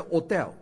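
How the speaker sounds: hotel with a silent H, otel; hotel said o-tel, no H sound; French hotel. Shown as a demonstration. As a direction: drop the H in hotel, French style. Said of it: "法国人不读H了".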